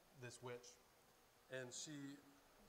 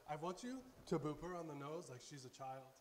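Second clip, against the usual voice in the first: mildly excited retold command, louder; 5 dB louder than usual. Imitating the Lord urging a boop on the nose, mildly excited. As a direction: repeat it with eager, playful insistence. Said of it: "And excitingly, he goes".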